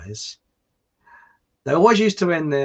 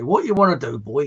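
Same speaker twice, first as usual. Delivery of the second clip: farm labourer; 3 dB louder than usual. Acted. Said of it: "the other farm labourers say".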